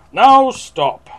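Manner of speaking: high, loud order; theatrical cry of command; commanding shout. A narrator's reading. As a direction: halt the monsters sharply. Max orders the monsters to stop.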